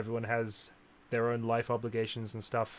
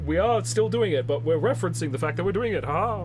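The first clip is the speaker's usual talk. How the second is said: mocking voice; 6 semitones higher, 8 dB louder than usual. Mock game writing voice.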